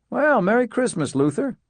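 pleasant greeting. A narrator's reading. Walt greets Luther at his door, pleasant. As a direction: welcome the neighbour kindly, pitch lifted high. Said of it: "with a pleasant".

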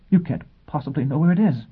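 high, faltering disbelief. Acted. Teacher threatened by Foyle, faltering and frightened. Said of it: "she faltered".

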